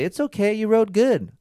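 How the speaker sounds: high, cooing voice, well above his own; mock consoling girlfriend. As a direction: parody a girlfriend soothing a losing rider. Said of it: "Don't say".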